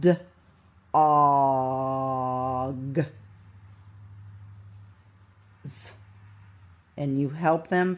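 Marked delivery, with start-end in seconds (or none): 0.0-5.9 "D, og, z" split slowly into separate sounds; segmenting sounds. Shown as a demonstration. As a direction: stretch each sound of dogs apart. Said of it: "Can you fill out those sounds?".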